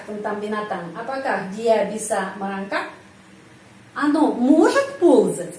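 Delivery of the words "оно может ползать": slow, может louder; teacher question demo; stress on может. Shown as a demonstration. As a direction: hit может to ask.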